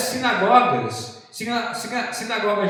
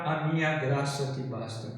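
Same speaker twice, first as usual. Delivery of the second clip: softer, lower quoted divine reply; God's answer; 4 semitones lower, 7 dB quieter than usual. Retold or imitated. Preacher voices God's reply to Paul, hushed and low. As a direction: answer the plea quietly and low, as God. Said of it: "Aí vem essa palavra".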